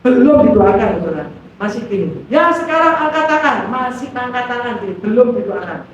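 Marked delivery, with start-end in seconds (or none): 2.3-3.6 imitating a preacher's high-pitched instruction; lightly voiced pulpit command; pendeta. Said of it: "pendeta ini nggak tahu tuh". (menirukan aba-aba pendeta)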